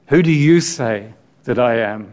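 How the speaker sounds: YOU punched, then easing off on the rest; firm weight on YOU; emphasis on YOU. Shown as a demonstration. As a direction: make YOU the strong word of the question. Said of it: "The emphasis is you".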